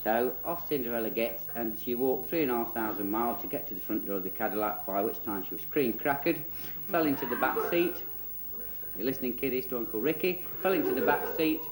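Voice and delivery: comic storytime narration; children's storyteller. Acted. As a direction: tell a cheeky tale as if to kiddies.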